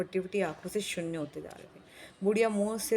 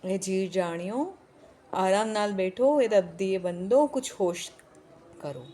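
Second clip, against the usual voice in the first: put-on pleading old woman, louder; 4 dB louder than usual. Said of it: "बुढ़िया बीच में फिर बोल रही".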